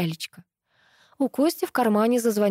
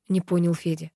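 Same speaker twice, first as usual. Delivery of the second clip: plain reading voice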